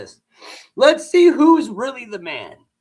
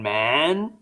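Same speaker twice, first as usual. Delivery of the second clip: deep mock man voice; 10 semitones lower than usual. Streamer mocking a first lady as manly, deep mock voice. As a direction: drop way lower for a booming man.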